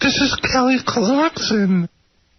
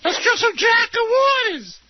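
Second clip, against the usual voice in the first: high, shouted rowdy voice; Artie Lang impression; 11 semitones higher than usual. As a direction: yell it like a wild party guy. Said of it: "it's Artie".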